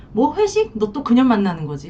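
a pitch jump on 회식, then an accusing question; imitating a jealous spouse, incredulous; mock suspicious outburst. A wife grilling her husband about his work dinner, mock suspicious. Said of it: "막 두자비를 하게 되는 거예요".

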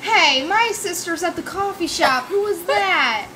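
a hint of a girly voice; man doing a woman's voice. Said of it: "did I scare you with my girl voice?".

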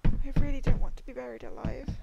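loud desperate plea; loud pleading. Real, not acted. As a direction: beg them not to bury you. Still pleading in the coffin.

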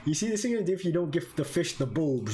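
put-on quick New York accent read. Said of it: "Just being said in New York accent".

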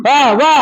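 "বা" said with both lips pressed and released; demonstrated syllable. Shown as a demonstration. Teacher modelling "বা" so the congregation repeats it. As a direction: show the audience how "বা" comes from closed lips. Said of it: "ঠোঁটটা একটা ধরে বা বলেন তো".

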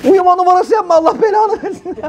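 çok yüksek perdeden, öfkeli karı sesiyle beddua; kızgın hanım taklidi. Retold or imitated. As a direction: uyuyor numarası yapan kocaya çıkışan hanımı oyna. Hanım yatan kocasına bağırıyor. (yatan kocasına beddua eden hanım, yüksek ve öfkeli)

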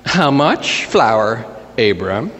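slow, sceptical question, dropping on the name; eye-rolling. Acted. Sarah questions Abraham's flour request, eye-rolling. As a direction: ask it slowly with an eye-roll. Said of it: "Sarah rolls her eyes and says".

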